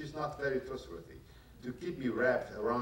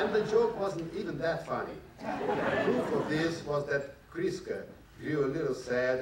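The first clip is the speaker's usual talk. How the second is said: laughing; 5 semitones higher, 4 dB louder than usual. Real, not acted. Reader still giggling over the joke, laughing. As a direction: still chuckling, a little higher and louder.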